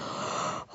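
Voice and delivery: suspiro suave de demostración; suspiro audible. Shown as a demonstration. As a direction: toma aire y suéltalo sin ganas. Demostración de felicidad poco creíble. (suspiro fingido)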